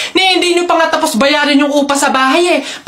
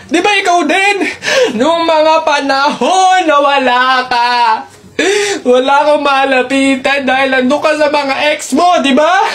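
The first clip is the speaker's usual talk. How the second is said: tearful shouted confrontation. Acted. Acted dramatic quarrel for video.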